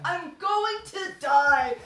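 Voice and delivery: slow laughing groan of delight. Real, not acted. Repeating it to a friend, slow and laughing. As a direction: drag it out through laughter.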